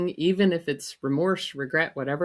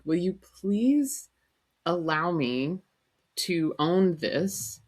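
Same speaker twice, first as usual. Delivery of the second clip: earnest plea; slower than usual. Retold or imitated. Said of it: "I'm like".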